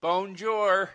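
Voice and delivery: "Bonjour" as a loud American "bone-jore"; deliberate mispronunciation. Acted. Joining in as ignorant tourist, mangled American "Bonjour". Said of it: "deliberately mispronounce one of their words".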